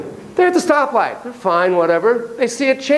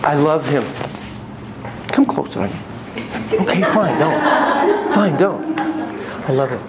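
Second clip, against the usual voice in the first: a touch of pleading sadness; lightly voiced hurt wife; 3 semitones lower than usual. Wife telling therapist she feels alone, mildly hurt. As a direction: play a lonely wife in couples therapy. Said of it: "The wife, the female partner".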